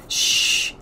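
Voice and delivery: urgent unvoiced shush; whispered hush. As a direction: hush them fast, breathy. The speaker hushing the boys.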